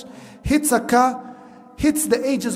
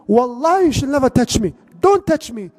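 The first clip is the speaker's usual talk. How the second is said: firm refusal; 4 semitones higher than usual. Acted. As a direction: push her back with your voice, higher and higher. Woman refuses the Shaykh's touch.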